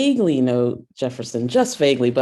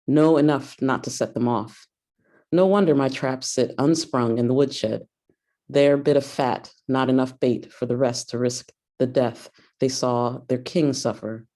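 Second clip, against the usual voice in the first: poetry reading. Acted. Reads a poem aloud.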